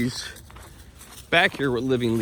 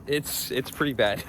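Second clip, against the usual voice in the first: hushed slow aside; whispering; 4 dB quieter than usual. Real, not acted. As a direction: whisper it like a secret. Whispered aside about his dog.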